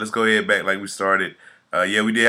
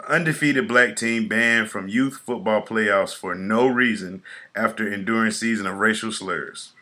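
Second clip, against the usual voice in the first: reading an article aloud on a podcast; news story read; 2 semitones higher than usual. Real, not acted. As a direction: read the report out in measured phrases.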